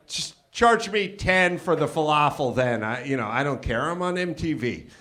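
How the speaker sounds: low, soft, offhand reply; casual brush-off. Retold or imitated. Customer waving off the extra cost to counter guy, low and offhand. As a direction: toss it off quietly like it's no big deal. Teller acts his cool reply.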